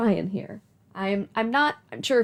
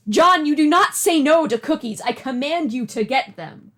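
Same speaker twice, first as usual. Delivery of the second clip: mock command; 2 semitones higher, 6 dB louder than usual. Commanding John in game.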